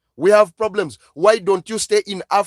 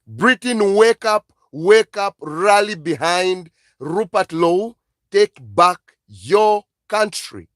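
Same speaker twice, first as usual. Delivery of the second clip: urgent call. Real, not acted. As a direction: shout it at a sleeping nation. Calling out to Britain.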